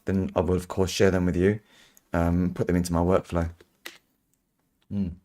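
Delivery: talking while crunching chips. Real, not acted. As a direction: mouth full of crunchy chips. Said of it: "Oh, sorry about the crunching, crunching noise".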